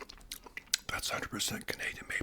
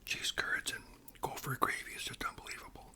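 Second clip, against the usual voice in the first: ASMR whisper; 9 semitones higher than usual. Acted. Host whispering about Canadian food to viewers, ASMR whisper. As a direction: whisper each word like sharing a treat.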